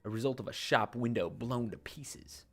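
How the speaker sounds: dramatic game narration. Acted. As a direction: narrate the doom like an old tale. Reads game text aloud.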